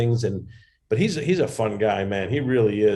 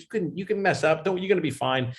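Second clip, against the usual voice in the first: reassuring Jay Leno; 4 semitones higher than usual. Retold or imitated. Leno reassures panicked comic backstage, higher and soothing. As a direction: talk a nervous comic down gently. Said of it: "he calmed me down".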